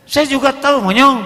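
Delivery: loud, high insulting snap; mock husband sneering an insult; angry husband. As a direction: spit the insult back. Husband snapping back insult.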